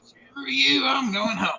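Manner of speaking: Cartman impression. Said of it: "perfect Cartman impression".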